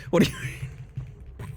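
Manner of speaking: hushed, slow whisper of a grossed-out listener. Retold or imitated. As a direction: breathe it out slowly, horrified.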